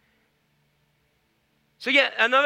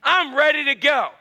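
higher, louder eager declarations; eager follower; 5 semitones higher, 3 dB louder than usual. Retold or imitated. Eager follower telling Jesus he is ready, mildly excited. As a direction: sound ready to go right now. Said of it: "And he says".

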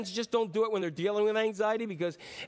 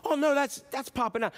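excited discovery; 5 semitones higher than usual. Retold or imitated. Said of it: "somebody's like".

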